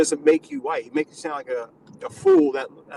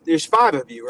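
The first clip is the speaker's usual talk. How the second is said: a bit louder; 4 dB louder, slower than usual. Real, not acted.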